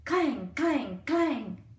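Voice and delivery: loud, ringing clangs; clanging bell. A narrator's reading. Fire engine bell arriving, loud clanging.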